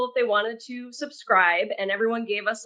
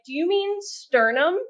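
high, slow imitated question; drawn-out, high-pitched retold query; retold puzzled question; 8 semitones higher than usual. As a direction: imitate someone carefully offering a correction. Voices the lady's amused correction.

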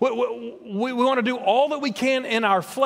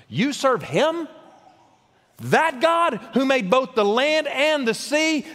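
higher, slow and disbelieving; terrified sailors; 6 semitones higher, slower than usual. Acted. Sailors gasping at Jonah, terrified and disbelieving. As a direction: sailors shrinking back in alarm. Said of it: "The sailors were terrified when they heard this".

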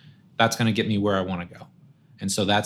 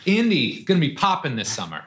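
mock-excited young player, pitched higher; imitating a player, pitched up and hyped about Indy; 6 semitones higher than usual. Coach mocking players excited about an Indy summer, high and hyped. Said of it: "How many guys are like".

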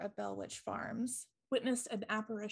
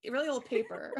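laughing through the words; giggling out the last words; 3 semitones higher, 7 dB louder, faster than usual. Real, not acted. Joking about touching old paper.

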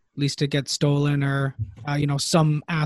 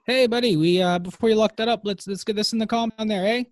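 hailing buddy; 6 semitones higher than usual. Acted. Player hails the NPC.

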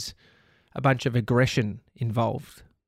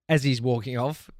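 ordinary talk

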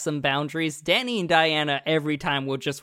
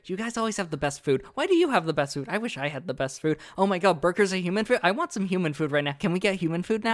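excited dog voice; 3 semitones higher, faster than usual. Acted.

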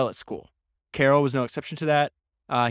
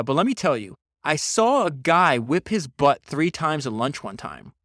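lightly imitated Texas accent, punched up; fake Texas drawl; 3 semitones higher, 4 dB louder than usual. Reading out Shelby's schoolfriend's story, fake Texas drawl. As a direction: read it in a poor mock Texas drawl. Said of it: "my poor, uh, like, Texas accent".

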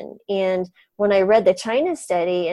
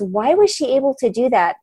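mildly frustrated question, pressing why; frustrated daughter; 4 semitones higher than usual. Retold or imitated. Daughter asks the doctor, a touch frustrated. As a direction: ask it with a hint of frustration, not anger. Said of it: "almost like a frustrated tone".

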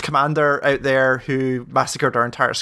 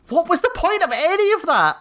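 much higher, put-on baffled voice; exasperated question; 12 semitones higher than usual. Player after the pointless side mission, mock exasperation. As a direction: throw up your hands in mock despair.

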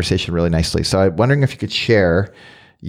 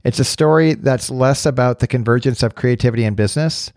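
measured, scripted narrator read; podcast introduction; 2 semitones higher than usual. Acted. Host setting up today's conversation on belonging, scripted introduction. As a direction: read it as a thoughtful show opener, with pauses between phrases.

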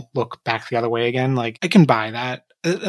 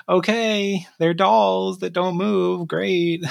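higher, drawn-out mock acceptance; sarcastic approval; 6 semitones higher, much slower than usual. Reacting to 3D models spinning in the opening, sarcastic. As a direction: feign being impressed.

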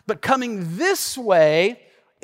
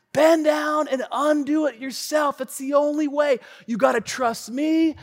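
firm guide; 7 semitones higher than usual. Retold or imitated. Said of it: "He said".

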